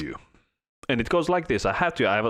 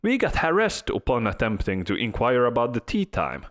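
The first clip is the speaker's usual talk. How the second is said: high-pitched fancy British lady reading a complaint; mock British lady voice, much higher; British accent; 6 semitones higher than usual. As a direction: read it like an offended posh British lady. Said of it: "in British accent".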